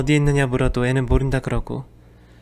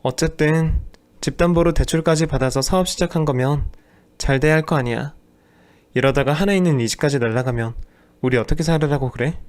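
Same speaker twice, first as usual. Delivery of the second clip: nagging wife; 3 semitones higher than usual. Acted. Wife nags husband about the house loan, mildly scolding. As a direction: press him about the loan.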